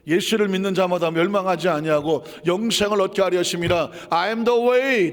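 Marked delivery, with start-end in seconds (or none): 4.1-5.1 each word drawn out very slowly; a preacher quoting Jesus, very slowly; slow solemn quote. Acted. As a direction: intone it slowly like scripture.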